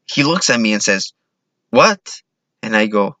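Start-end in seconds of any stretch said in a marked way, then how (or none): 1.7-2.2 high, sharply rising question; incredulous What. Retold or imitated. Robber to clerk after being refused charity, incredulous. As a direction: throw it back in disbelief.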